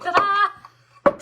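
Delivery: high, loud, slow drawn-out ta-da; proud ta-da. Real, not acted. Crafter showing viewers the peeled sticker, a loud high slow ta-da. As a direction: show it off like a magic trick.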